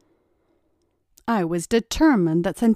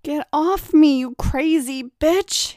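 raised, louder demand to be let go; angry demand; 7 semitones higher, 4 dB louder, slower than usual. A narrator's reading. Pinned man shouting at his captor, angry demand. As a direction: bark it at her, furious. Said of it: "he demanded".

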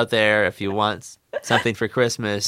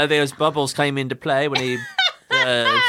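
playful put-on British voice; British accent; 2 semitones higher than usual. Co-host explaining how bubbles came into play, mock British accent. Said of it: "gonna do a British accent too".

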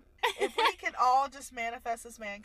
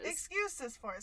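hiccups; 7 dB quieter than usual. Real, not acted. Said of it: "Sorry, I have the hiccups".

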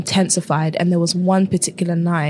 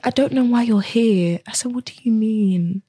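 trying not to cry; 4 semitones higher than usual. Real, not acted. Guest retelling her scan result, trying not to cry. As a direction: voice pitched up, holding back tears. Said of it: "I'm actually trying not to cry".

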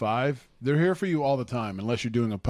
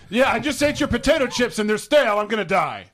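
laughing loudly; 9 semitones higher, 7 dB louder than usual. Pretend. Joking medical emergency to Hershey.

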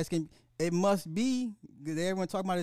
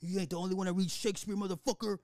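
villain's taunt; much faster than usual. Retold or imitated. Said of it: "I was like".

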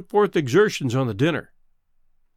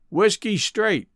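sighed; 6 semitones higher, slower than usual. Acted. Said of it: "sighed Greenbrier".

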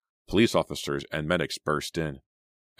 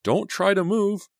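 tender; 6 dB louder than usual. A narrator's reading. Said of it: "telling her tenderly".

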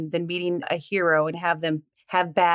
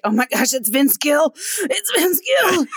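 gushing fangirl, climbing higher; excited fan, building to a high squeal; starstruck squeal; 8 semitones higher, slower than usual. Retold or imitated. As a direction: freak out over spotting your idol. Starstruck fan reaction, retold.

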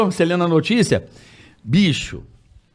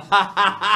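re-enacted helpless laugh; imitated laughing fit; 3 dB quieter than usual. Prankster watching the row he caused, imitated laughter. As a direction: laugh as the prankster secretly enjoying it. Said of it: "Eu rindo pra caralho".

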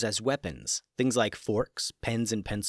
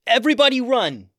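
much higher, loud alarmed yell; 14 semitones higher, 10 dB louder than usual. Acted. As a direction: shout so the whole group bolts. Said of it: "yelled Tatiana".

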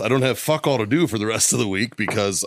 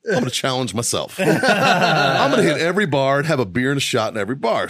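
laughing boast; 2 semitones higher than usual. Retold or imitated. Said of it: "I'm like".

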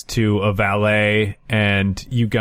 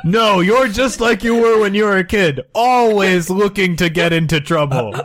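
put-on scolding old uncle; 5 semitones higher than usual. Uncle lectures Jackie.

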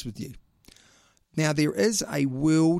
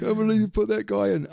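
outraged fan; 8 semitones higher than usual. Retold or imitated. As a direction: play an indignant fan, half laughing. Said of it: "you'll be shouting at us saying".

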